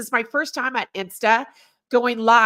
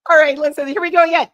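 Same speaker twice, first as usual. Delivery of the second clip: punch-in edit; 3 semitones higher, 5 dB louder, much faster than usual. Shown as a demonstration. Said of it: "I'm re-recording this part".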